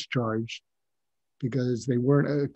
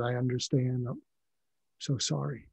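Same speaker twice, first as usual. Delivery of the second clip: softer, a touch teary, quietly sorry; teary apology; 6 dB quieter than usual. Retold or imitated. Doctor to dying patient, softly teary. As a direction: hold back tears as you apologize. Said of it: "my eyes got kind of teary".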